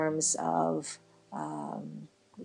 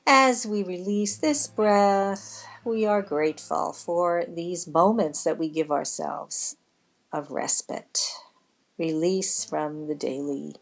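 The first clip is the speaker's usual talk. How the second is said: guided breathing meditation. Acted. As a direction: ease them gently through each breath, stretching the words. Leads a breathing relaxation.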